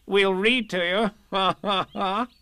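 high, bright laugh on "read", rising at the end; cheerful Rabbit. Acted. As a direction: chuckle through it, pleased with himself. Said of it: "said Rabbit cheerfully".

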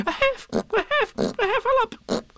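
very high, gasping Piglet; out of breath. A narrator's reading. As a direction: pant between tries at the word. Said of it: "breathing so hard that he could hardly speak".

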